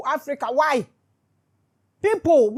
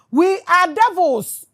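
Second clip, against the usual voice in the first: slow, loud, higher outburst; bitter sarcastic shout; 6 semitones higher, 10 dB louder, slower than usual. Real, not acted. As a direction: spit it out slowly in bitter mockery.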